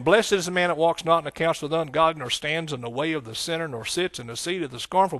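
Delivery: scripture read out with rising preaching force; preached scripture. Acted. Preacher reads Psalm one to his church, building force. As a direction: declaim the psalm to the congregation. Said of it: "It says".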